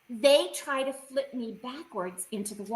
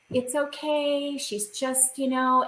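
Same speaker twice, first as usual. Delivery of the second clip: cooing; slower than usual. Retold or imitated. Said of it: "cooing to me like a baby".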